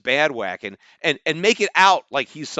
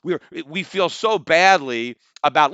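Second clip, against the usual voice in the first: mock apology; 5 dB louder than usual. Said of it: "the conference has said".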